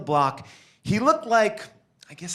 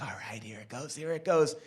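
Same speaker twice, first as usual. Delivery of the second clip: hushed anticipation; 3 semitones lower, 8 dB quieter than usual. Acted. Whispering while watching from the window.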